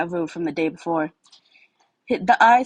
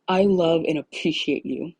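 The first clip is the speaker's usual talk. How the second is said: aggressive. Acted. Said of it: "his aggressive tone didn't match his words".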